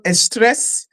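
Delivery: "estrés" with a leading "es" before "tres"; Portuguese pronunciation. Shown as a demonstration. Presenter showing viewers the Portuguese word, careful "estrés" opening on "es". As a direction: say "estrés" as two beats, es-TRES. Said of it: "In Portuguese, it's called".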